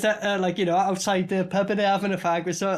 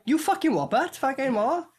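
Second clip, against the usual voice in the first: mock pub challenge; 6 semitones higher than usual. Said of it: "and they're like".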